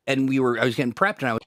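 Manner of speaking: glitchy robot voice; choppy robotic stream audio. Real, not acted. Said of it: "you got robot voice".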